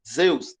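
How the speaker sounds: Zeus said as zdeus, with d after z; zdeus pronunciation. Shown as a demonstration. Teacher showing the other school's reading. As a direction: voice Zeus with a buzzing zd. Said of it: "vai ser Zeus".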